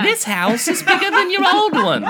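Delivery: put-on high, loud old aunt voice, laughing; Aunt Bethany. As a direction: play a dotty old aunt, squeaky and loud. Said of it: "turn into Aunt Bethany".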